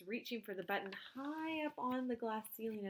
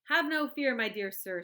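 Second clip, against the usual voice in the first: calmly; 3 semitones higher, 10 dB louder than usual. A narrator's reading. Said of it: "said Mister Wonka calmly".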